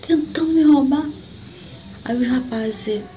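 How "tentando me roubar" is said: higher, louder complaint; indignant retold protest. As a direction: insist on the robbery, outraged. Continuing her outraged protest.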